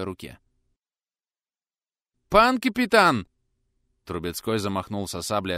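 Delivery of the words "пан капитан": higher, louder slow call; called from outside. A narrator's reading. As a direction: call through the door. Calls again from doorway.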